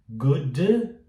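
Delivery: "good" with a little puff after D; over-released D. Shown as a demonstration. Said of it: "Você começa a falar o D". ("good" com D solto demais)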